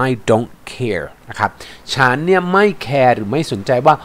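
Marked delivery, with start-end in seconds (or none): 0.1-1.0 "care" ending on a clear R; R sound demonstration. Shown as a demonstration. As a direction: slowly model the final R in "care". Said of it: "เสียง R นะ".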